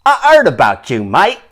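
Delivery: English hooligan sneer; English lad accent. Acted. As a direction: taunt him like a rowdy pub fan. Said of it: "Is you the Wichita wanker".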